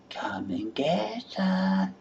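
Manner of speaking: slow, breathless whisper of the call; whispered come-and-get-it. Shown as a demonstration. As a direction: hush the end of the call. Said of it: "whispered end of the call".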